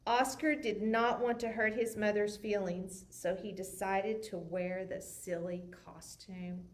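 put-on lively read-aloud for kids; story narration. A narrator's reading. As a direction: tell it like a bedtime picture book. Reads picture book aloud.

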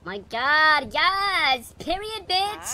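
hammed-up girly squeal, high and loud; gushing sassy diva voice; Carmelo. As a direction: pitch way up, loud and exaggerated. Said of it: "I gotta act like Carmelo".

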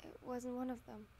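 steady storytelling read; story narration. Acted. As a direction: read it like an audiobook. Reads fanfic narration aloud.

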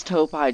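"Topai" said TOE-pie, ending like "pie"; deliberate mispronunciation. Real, not acted. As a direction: purposely end "Topai" on an "eye" sound. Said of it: "I like to pronounce it wrong".

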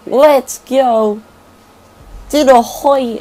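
put-on joking Indian accent for the car chase. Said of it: "stop the, um, high-end speaking".

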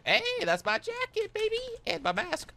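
high excited yelp; excited high shout. Real, not acted. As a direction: shriek it out in delight. Spots his jacket on enemy.

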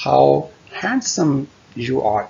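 "handsome" said without the d, "hansum"; silent d. Shown as a demonstration. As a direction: drop the d in "handsome". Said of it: "इसे हैंडसम नहीं पढ़ना, डी नहीं पढ़ना". ("handsome" में डी silent)

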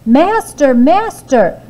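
high, loud alarmed cry; harp screaming. Acted. The harp calling the giant for help, screaming. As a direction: shriek for your master. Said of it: "it screamed".

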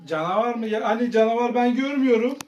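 hushed, sceptical play officer; pretend police officer. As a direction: question the report as a quiet make-believe officer. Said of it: "Polisleri arayıp geliyorum".

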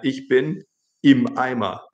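slow, deliberate „Ich bin im Eimer“; slow reading. Shown as a demonstration. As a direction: read it slowly for the class. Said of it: "nicht eimermüde". (langsam und betont vorgelesen)

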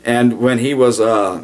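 ordinary delivery

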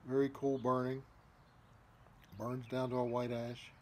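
talking around pipe stem; pipe in mouth. Real, not acted. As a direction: lips clenched on stem. Seen 0: Pipe stem held between lips while speaking throughout.

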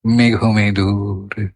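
মেঘমেদুর rolled slowly downward on soft notes; slow soft glide. Shown as a demonstration. Teacher showing notes rolling gradually down, slow soft glide. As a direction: slide gently down through মেঘমেদুর, holding the end. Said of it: "আস্তে আস্তে লিপটাঙ্গার উপর থেকে গড়িয়ে গড়িয়ে নেমে আসছে".

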